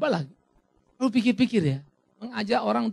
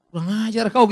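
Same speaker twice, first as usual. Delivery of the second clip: louder scolding rebuke; mock scolding; 6 dB louder than usual. Pastor scolds the unrepentant prisoner, louder. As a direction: tell him off. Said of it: "kita bilangnya".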